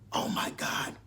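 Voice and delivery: low whispered impression; Angela's raspy whisper. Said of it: "that's how Angela's voice sounds".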